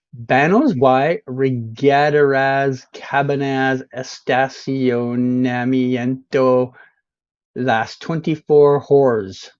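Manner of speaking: slowly over-pronounced Spanish sign reading; mock Spanish. Streamer showing off his Spanish to viewers, slow mock Spanish. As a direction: read each Spanish sign like a confident local. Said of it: "read every sign out in perfect Spanish".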